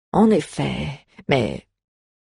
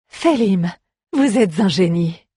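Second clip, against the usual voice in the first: admiring exclamation; 3 semitones higher than usual. Acted. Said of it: "s'exclama la barde".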